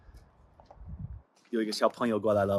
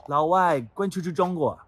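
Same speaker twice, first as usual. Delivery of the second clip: raised, higher-pitched mock heckle; imitated loud yell; 7 semitones higher, 4 dB louder than usual. American resident retelling a driver's abuse, imitated yell. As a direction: call it out like the passing heckler. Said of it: "有一个人大声叫".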